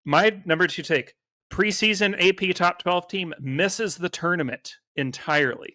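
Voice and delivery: smooth radio announcer read; radio guy voice. Pretend. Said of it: "radio guy voice".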